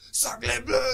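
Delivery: mock French exclamation. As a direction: shriek it like a cartoon Frenchman.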